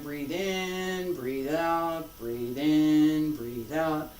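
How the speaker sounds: drawn-out, unhurried breath calls; slow breathing cues. Shown as a demonstration. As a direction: stretch each cue to match a slow movement. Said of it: "if we move slowly".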